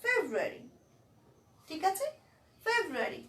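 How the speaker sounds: ফেব্রুয়ারি with a stressed first part. Shown as a demonstration. Teacher models ফেব্রুয়ারি with the stress. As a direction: lean on ফেব in ফেব্রুয়ারি. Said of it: "একটু stress নিচ্ছি না".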